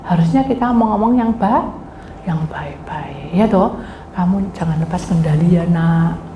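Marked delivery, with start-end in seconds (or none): 2.3-3.3 soft, drawn-out whisper; hushed, lingering demonstration; gentle good talk. Shown as a demonstration. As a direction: whisper it very slowly and kindly. Models speaking kindly.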